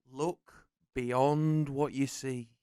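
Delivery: slow, soft, drawn-out line; mystical film quote. Acted. Host performs the next quiz quote, slow solemn delivery. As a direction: intone it slowly and softly.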